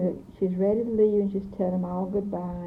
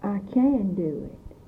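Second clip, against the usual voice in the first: "can" drawn out and stronger, then falling; slow it down and lean on "can"; stress on CAN; slower than usual. Shown as a demonstration. Informant answering how you'd say you could, stress on "can". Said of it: "put the emphasis on".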